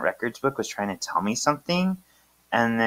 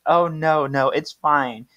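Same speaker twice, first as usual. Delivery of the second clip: higher, drawn-out reassurance; reassuring politeness; 4 semitones higher, slower than usual. Acted. Phoebe reassures the apologizer, higher and drawn out. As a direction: wave off the apology, stretching words.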